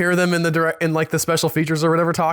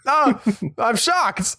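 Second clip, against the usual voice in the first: high, breathy-free mock surprise, much higher pitch; mock shocked viewer; 8 semitones higher, much slower than usual. Mocking a stunned fan who just learned she was acting, in a high put-on voice. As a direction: play a gushing fan stunned the actress is Australian.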